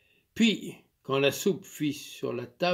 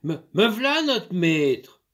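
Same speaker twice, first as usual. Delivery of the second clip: a light touch of a country maid, called out; eager maid; 5 semitones higher, 7 dB louder, slower than usual. Acted. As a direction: hurry to answer the master. Maid answering master.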